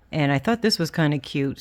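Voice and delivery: whistling s through the teeth; s sounds whistle past the teeth. Real, not acted. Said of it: "Sorry about the whistle of my teeth".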